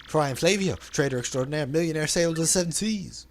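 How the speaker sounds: flamboyant merchant voice, lightly put on; theatrical braggart reading; hammed-up Flavio. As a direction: play the vain, dramatic sailor.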